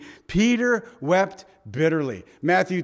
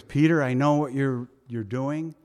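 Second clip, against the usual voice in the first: soft, lower, loving words to a friend who failed; Jesus speaking to Peter after his denial, tenderly; tender reassurance; 3 semitones lower, 4 dB quieter than usual. Acted. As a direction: reassure him gently. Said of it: "I think it was".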